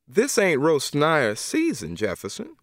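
put-on a stern old godmother setting him straight; Miss Emma. Miss Emma voiced by narrator.

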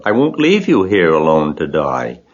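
insistent outburst, climbing high; stubborn, upset cry; distressed shout. A narrator's reading. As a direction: protest with rising pitch. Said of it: "shouted Wilbur".

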